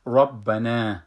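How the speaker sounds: ربنا opens with a heavy rounded ra; full ra. Shown as a demonstration.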